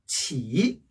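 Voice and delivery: "치" low and dipping; third tone. Shown as a demonstration. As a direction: let "치" sink and come back up. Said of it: "삼 성이 왔을 때예요".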